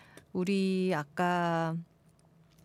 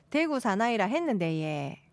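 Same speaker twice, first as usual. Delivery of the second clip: PD's Daegu dialect. Retold or imitated. Host relaying the producer's correction, imitated Daegu dialect. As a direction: copy the producer's Daegu accent. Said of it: "이렇게 한다는데요, 우리 피디님이".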